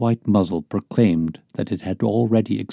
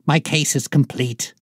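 a touch of triumph, pitched higher; exultant; 6 semitones higher than usual. A narrator's reading. Holmes declaring his case solved, lightly exultant. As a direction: announce victory with rising glee. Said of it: "he cried exultantly".

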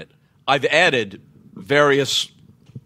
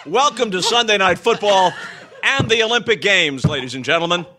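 sports announcer; 5 semitones higher than usual. Pretend. Mock sportscast opening after the joke.

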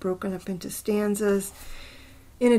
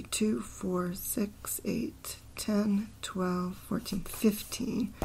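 softer half-whispered syllable count; counting under breath; 7 dB quieter, much slower than usual. Real, not acted. Counting a poem's syllables to himself, half-whispered. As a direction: mutter the count to yourself.

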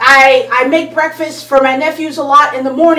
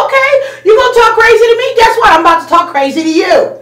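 fast, sassy comeback, higher and a bit louder; talking crazy back; 6 semitones higher, 3 dB louder, faster than usual. Retold or imitated. A retort to someone who comes at her hard, quick and sassy. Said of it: "I'm like".

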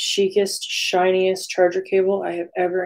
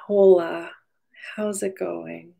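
playful whispered hello; whispering; slower than usual. Real, not acted. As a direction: whisper a greeting to it. Greeting the device.

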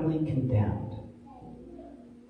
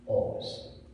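whispered echo; soft whispered emphasis; 7 dB quieter than usual. Acted. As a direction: let the word fall to a whisper. Hushed echo after the point.

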